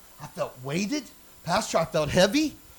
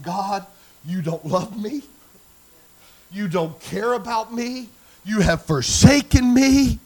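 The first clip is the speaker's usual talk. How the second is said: slow plea building from subdued to loud; retold crying out; 5 dB louder, slower than usual. Woman on her face accusing God, retold cry building louder. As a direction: imitate an anguished prayer, swelling on the last phrase. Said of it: "crying out to God".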